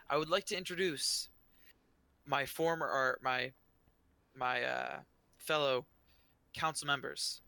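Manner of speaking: projected formal introduction; booming voice. Acted. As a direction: present dignitaries to a crowd. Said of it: "the voice booms".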